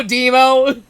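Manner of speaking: loud, high call of the name. Shown as a demonstration. Narrator yells the bully's name in mock outrage. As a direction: shout it at him. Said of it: "calling out Demo".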